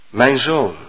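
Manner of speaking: soft, tender my son; Jesus greets the man softly; gentle voice from above. Acted. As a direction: speak kindly, like a loving father. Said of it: "Toen klonk een stem van boven".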